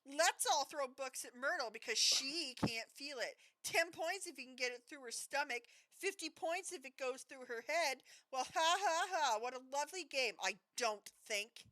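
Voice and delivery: a lightly voiced shrieking sulk; shrieking Myrtle. A narrator's reading.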